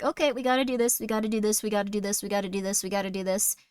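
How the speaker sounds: imitating composure under pressure; acted calm. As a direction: talk someone down, steady and unbroken. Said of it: "Calm is a superpower".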